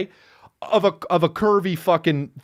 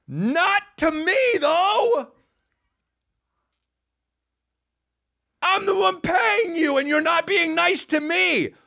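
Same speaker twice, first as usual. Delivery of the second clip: high, slow, whining mock cry rising into a shout; high mock-crying whine; whiny inner complaint; 12 semitones higher, slower than usual. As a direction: whine it like a wronged kid. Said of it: "But I didn't say that, but I thought it".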